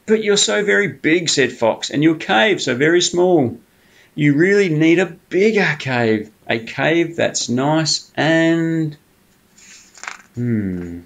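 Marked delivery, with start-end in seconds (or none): 0.1-9.0 higher, coaxing sly fox voice. Acted. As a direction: sweet-talk the bear like a cunning fox. Fox coaxes Bear.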